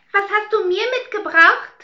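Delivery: high, loud eager demand; greedy sister. Acted. Dora greeting her father, high and demanding. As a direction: squeal it out like a spoiled girl.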